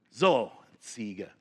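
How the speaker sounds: slow, satisfied monkey; pleased monkey. Acted. Monkey presenting the sign to the goat, slow and pleased. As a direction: say it slowly, pleased with yourself.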